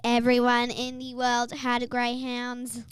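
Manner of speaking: flat robotic monotone. Pretend. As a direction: talk like a robot. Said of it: "Why is Hannah talking like a robot?".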